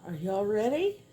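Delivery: gushing makeover reveal. Real, not acted. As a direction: gush over the finished piece. Unveiling the finished piece.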